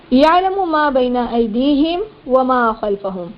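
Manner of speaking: slow, drawn-out chanted recitation; Quran recitation. Shown as a demonstration. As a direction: chant each word long and measured.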